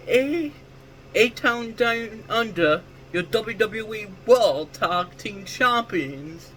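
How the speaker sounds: put-on slow ring-announcer Australian accent drifting British. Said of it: "I was trying to do an Australian accent, but it sounded British".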